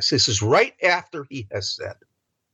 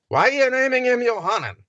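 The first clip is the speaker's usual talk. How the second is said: incredulous question; 13 semitones higher, faster than usual. Retold or imitated. People question the father's naming.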